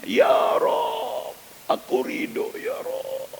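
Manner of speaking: breathless, tearful whispered prayer; a mother fallen to the floor, whisper-crying her thanks; weeping whisper. Acted. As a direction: sob it out almost without voice.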